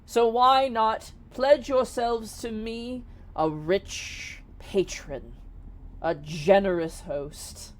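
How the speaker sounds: slow, stately genie courting recruits; a touch of grandiose salesmanship, in measured phrases; lightly voiced grand genie. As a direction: proclaim it slowly, with deliberate pauses.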